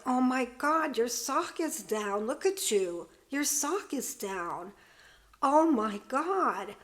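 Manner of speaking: a mildly imitated hushed reproach, slowing at the end; imitating a mother's hushed disapproval; disapproving half-hushed scold. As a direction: scold under your breath, not quite a whisper. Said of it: "not a real whisper, but not yelling".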